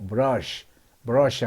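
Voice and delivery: 브러쉬 with the R pulled inward; demonstrated English R in 브러쉬; tongue-back R. Shown as a demonstration. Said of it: "알을 안으로 당기면서 약간 공중에".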